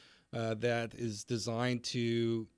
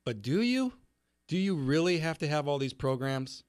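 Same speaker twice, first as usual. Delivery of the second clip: pointed challenge; 2 semitones higher, 3 dB louder than usual. Pretend. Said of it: "my response to that is".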